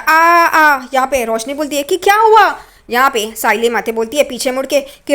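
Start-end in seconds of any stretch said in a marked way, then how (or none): 0.0-0.9 mock "aah, aah" of someone hurt; drawn-out imitated cries; imitated moan of pain. Tejas cries out under the blows, imitated moaning. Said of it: "वो आवाज़ कर रहा होता है". 2.0-2.6 high acted "what happened"; alarmed question. Roshni walks in on the commotion, acted alarmed question.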